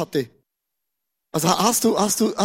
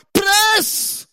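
doctor's order; 11 semitones higher than usual. Acted. Doctor in delivery room.

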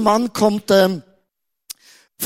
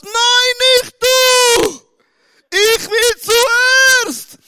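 put-on high, loud, stretched-out baby wail; whiny baby shout; 7 dB louder, much slower than usual. Preacher voicing baby Jakob yelling at Esau, high whiny shout. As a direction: wail like a baby shoving his brother back.

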